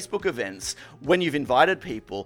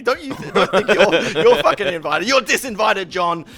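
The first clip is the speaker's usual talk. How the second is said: retold angry disinvite; 4 semitones higher, 6 dB louder than usual. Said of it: "I'm like".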